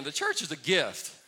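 booming call to the congregation; preached shout. Real, not acted. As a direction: belt it out so the room answers. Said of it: "so let me try that again".

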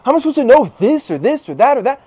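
high-pitched frustrated questioning; retold exasperation. Woman retelling her anger at conflicting books, mock exasperation. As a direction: imitate someone fed up, pitch jumping on each choice. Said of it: "I was so mad 'cause".

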